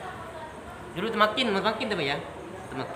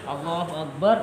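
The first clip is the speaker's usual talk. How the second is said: quiet takbir demo; 7 semitones lower, 8 dB quieter than usual. Shown as a demonstration. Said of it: "Kalau sujud kedua".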